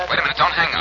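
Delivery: disguised put-on voice; phony voice. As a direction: fake voice to fool him on the phone. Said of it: "putting on that phony voice".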